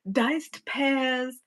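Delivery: slow, grandly presented menu item; mock grand announcement. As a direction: announce it slowly like a waiter. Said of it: "like a server".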